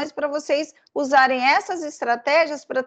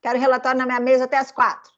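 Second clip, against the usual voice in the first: bossy order; much faster than usual. Retold or imitated. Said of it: "O chefe falaria como isso pra gente?".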